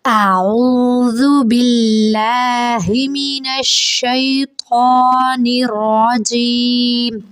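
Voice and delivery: slow, drawn-out chanted recitation; joined-up recitation. Shown as a demonstration. Teacher recites the words joined together. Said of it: "را کو بھی موٹا پڑھیں".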